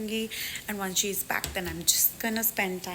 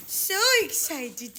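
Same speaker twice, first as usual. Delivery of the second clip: drawn-out high coo; slow high coo; 8 semitones higher, much slower than usual. Real, not acted. Cooing to her dog Ollie, slow and high.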